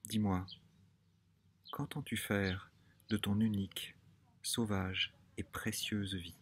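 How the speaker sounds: closing question recited slowly, pausing between phrases; poem reading. Acted. Asking the listener about their one life, poem reading. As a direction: let each phrase of the question stand alone.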